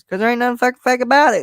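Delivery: imitating Cornette's heated burst; retold outburst. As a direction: hammer the line like a fired-up promoter. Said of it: "He goes".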